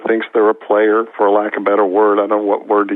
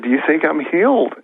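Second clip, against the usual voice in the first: lightly imitated fearful young man, higher pitch; mildly terrified; 5 semitones higher than usual. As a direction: retell it with a touch of nervous fear, pitched up. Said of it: "he's terrified".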